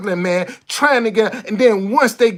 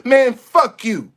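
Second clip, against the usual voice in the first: defiant cuss out; slower than usual. Retold or imitated. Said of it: "You need to tell that person".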